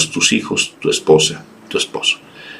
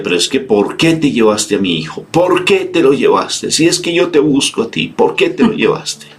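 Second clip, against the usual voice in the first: a mother's anguished question, raised high; grieving reproach; 8 semitones higher than usual. Retold or imitated. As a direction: cry out the loss of a son to God. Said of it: "Y ella decía".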